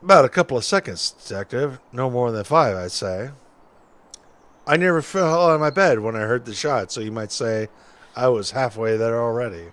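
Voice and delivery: lightly voiced folksy witness; a hint of an old-timer telling his story; old-timey witness.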